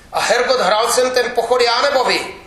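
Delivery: loud, high angry yell; furious roar. Acted. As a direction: bellow it at the official in outrage. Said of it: "zařval můj novomanžel".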